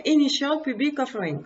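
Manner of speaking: English acronym said with a French accent; apologetic French accent on English. Real, not acted. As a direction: read the English words in your French accent. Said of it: "désolé de mon accent anglais".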